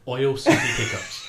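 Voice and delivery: Oil said slowly and distinctly; slow, deliberate Oil City Pickups; slow clear repeat. Shown as a demonstration. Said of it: "Sorry for my French accent".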